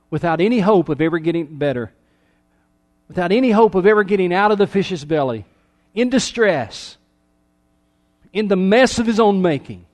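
sermon build-up with mounting intensity; building preaching. Real, not acted. Preacher describing Jonah without hope in the fish's belly, building intensity.

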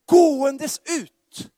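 "Gåendes ut" slow, high and loud; stress on Gåendes. Shown as a demonstration. Preacher repeating his key phrase, "Gåendes" slow, high and loud. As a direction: lean hard on "Gåendes", drawn out. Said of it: "han säger så här".

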